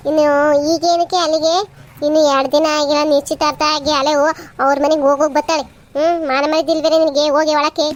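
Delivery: loud, sharp family scolding; angry scolding. Acted. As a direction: tell her off at full volume. Elder scolds daughter in family quarrel. (ಜೋರಾಗಿ ಸಿಟ್ಟಿನಿಂದ ಬೈಯುವುದು)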